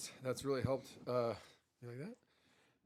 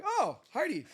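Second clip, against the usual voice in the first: high, loud mock exasperation; a squealed, hammed-up groan at her name; mock whine of frustration; exasperated; 13 semitones higher, 8 dB louder, slower than usual. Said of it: "And I'm like".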